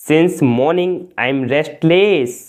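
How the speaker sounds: slow, careful model sentence; slow and clear. Shown as a demonstration. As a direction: give each word room. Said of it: "सुबह से मैं बेचैन हूँ।". (धीरे और साफ़)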